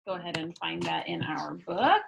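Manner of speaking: soft whispered instruction; whispering. Real, not acted. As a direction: whisper it to the class. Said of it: "whispered instruction".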